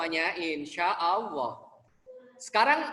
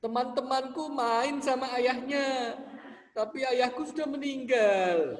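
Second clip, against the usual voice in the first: put-on sad child; 3 semitones higher than usual. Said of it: "anak-anak lagi menangis".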